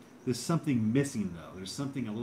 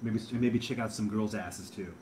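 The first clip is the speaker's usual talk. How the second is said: Cinestalker impression. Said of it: "Your impression of Cinestalker".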